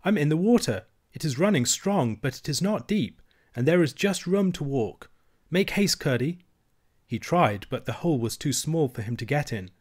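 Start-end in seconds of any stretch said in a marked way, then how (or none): 0.0-6.4 put-on a girl urging her friend to hurry; mild eager calling; excited princess. Irene calls back from water.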